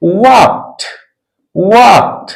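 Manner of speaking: वॉक्ड as "walkt", released T at the end; final -ed as T. Shown as a demonstration. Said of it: "क्या पढ़ेंगे हम लोग".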